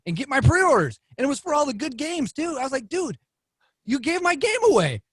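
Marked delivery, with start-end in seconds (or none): 2.9-5.0 high, whiny mock complaint; mock outrage. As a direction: pitch it way up, playfully indignant. Retelling complaint to friend.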